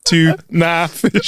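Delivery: slow, high, stretched Tuna fish; drawn-out punchline. Shown as a demonstration.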